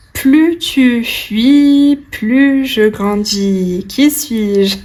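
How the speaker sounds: slow, light riddle-master read; a hint of the old fort riddler; père Fouras riddle voice. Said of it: "la voix de, du père Fouras".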